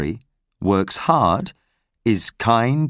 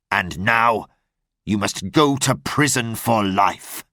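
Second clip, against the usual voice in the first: stern inspector; 2 semitones lower than usual. Acted. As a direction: lay down the charge coldly. Javert arrests Valjean.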